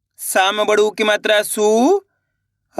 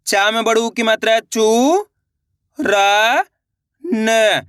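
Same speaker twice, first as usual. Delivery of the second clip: slow syllable drill; much slower than usual. Shown as a demonstration. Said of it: "मेरे साथ साथ इनको repeat करना है".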